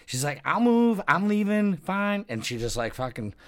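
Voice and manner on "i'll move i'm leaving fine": much higher and louder, indignant; huffy refusal. Retold or imitated. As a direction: wave him off, offended. Girl storming off.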